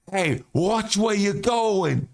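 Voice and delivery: high, slow mock New York yell; imitating a cyclist from Central Park; hammed-up New York tough guy; New Yorker. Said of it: "It was so New York".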